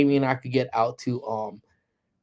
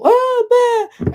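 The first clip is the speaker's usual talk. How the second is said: high, loud mock girlish shriek; mock squeal; 10 dB louder than usual. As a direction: squeal loudly like excited girls. Mimics houseful of young girls.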